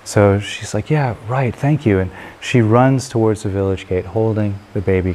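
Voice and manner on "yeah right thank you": higher-pitched, lightly acted eagerness; eager thanks. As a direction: thank them, keen to get going. Woman gratefully accepts elder's advice.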